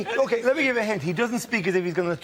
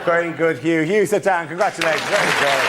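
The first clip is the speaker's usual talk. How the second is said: loud praise; 6 dB louder than usual. Real, not acted. Host praising loudly.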